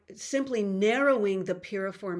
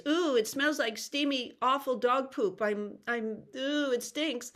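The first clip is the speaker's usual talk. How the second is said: high, disgusted ick face; 5 semitones higher than usual. Shown as a demonstration. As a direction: pull a face at a bad smell. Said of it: "you do ick face".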